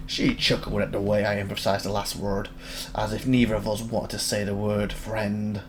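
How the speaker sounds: low, soft narration read; story narration. A narrator's reading. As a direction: read the game text as a quiet narrator. Reads game narration aloud.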